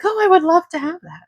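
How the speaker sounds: high, quick excited gush; excited viewer. Retold or imitated. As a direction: squeal it like a delighted fan. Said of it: "somebody knows it and is like".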